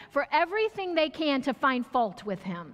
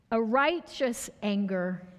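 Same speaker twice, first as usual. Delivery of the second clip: slow emphasis; 4 semitones lower, slower than usual. Shown as a demonstration. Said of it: "hear this".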